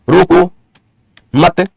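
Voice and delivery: रोको मत kept together as one phrase; pause after मत. Shown as a demonstration. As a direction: say रोको मत, then stop after मत. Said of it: "अब इसमें दोनों पंक्तियां सेम है".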